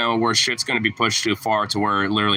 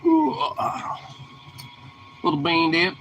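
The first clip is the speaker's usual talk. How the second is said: high cooing pet voice; 5 semitones higher than usual. Real, not acted. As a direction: coo at the puppy in a high voice. Talking sweetly to his dog.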